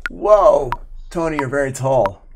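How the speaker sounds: put-on wowed reaction, strongest on the first word; acted amazement. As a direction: imitate an impressed onlooker, easing off after the exclamation. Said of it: "you'd be like".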